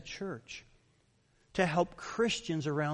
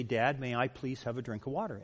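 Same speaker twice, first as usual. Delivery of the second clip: polite request; 5 semitones lower, 5 dB quieter than usual. Shown as a demonstration. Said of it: "I want you to say".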